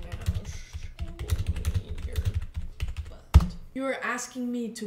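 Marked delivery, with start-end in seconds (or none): 0.0-3.5 slow and breathy, then bark BUTT loud; slow build to a loud punchline on butt; drawn-out cheeky setup. Pretend. Teasing the monster bot, slow then loud on butt.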